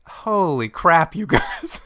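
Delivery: slow, high, stunned disbelief. Retold or imitated. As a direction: drag it out, amazed and appalled. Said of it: "I'm like".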